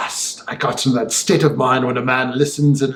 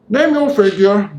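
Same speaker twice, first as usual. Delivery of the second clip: much higher, cold sneering gentleman; sneering villain; 7 semitones higher than usual. A narrator's reading. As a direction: sneer it out with cool menace. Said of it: "sneering coolness".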